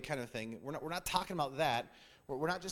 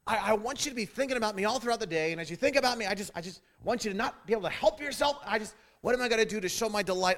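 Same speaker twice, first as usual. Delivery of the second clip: wife's plea; 6 semitones higher, 6 dB louder than usual. Retold or imitated. Wife explains her wish.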